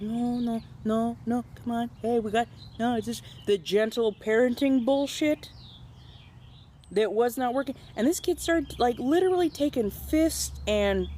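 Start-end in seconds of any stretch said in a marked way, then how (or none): 0.0-7.8 pleading grandma. Retold or imitated. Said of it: "grandma's like".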